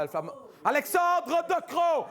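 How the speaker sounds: mocking the young minister; mocking name. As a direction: savour the name with scorn.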